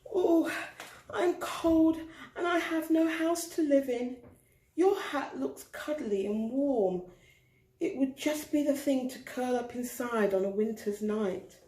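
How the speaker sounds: high, small, sorry-for-itself mouse voice; a little mouse sniffling about the cold; tiny sad mouse. Acted. Cold little mouse pleading with Hamilton, high and small.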